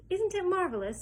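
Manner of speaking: high, bright-eyed marvel; delighted old man's gasp; grinning delight. Acted. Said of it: "grinning at Charlie".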